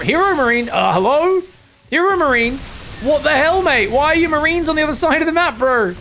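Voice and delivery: high, loud disbelieving call to the player; what are you doing, bro, shouted up high; incredulous calling out. Real, not acted. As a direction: yell at him like he's lost his mind.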